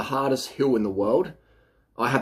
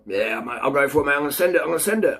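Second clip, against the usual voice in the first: airhead rider; 4 semitones higher, faster than usual. Retold or imitated. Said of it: "undercarbed or not".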